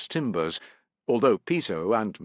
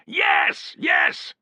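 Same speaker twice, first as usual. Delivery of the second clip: lower, louder insistence; crying out; 7 semitones lower, 4 dB louder than usual. A narrator's reading. Piso crying out in eager confirmation. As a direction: insist loudly. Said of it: "cried Piso".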